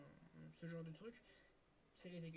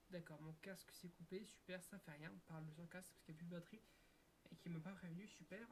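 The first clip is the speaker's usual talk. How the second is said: annoyed muttering; 7 dB quieter than usual. Real, not acted. Headset died mid-recording, annoyed.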